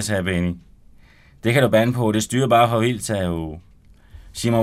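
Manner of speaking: lively read-aloud narration with voiced characters; story narration. Author reading his novel aloud on radio, animated. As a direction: read the chapter to the studio audience with energy.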